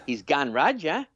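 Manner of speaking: slow, drawn-out Cumbrian accent. Shown as a demonstration. Co-host demonstrating how Cumbrians talk, attempted Cumbrian accent. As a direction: have a go at a Cumbrian accent, stretched out. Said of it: "it's a very hard accent to do".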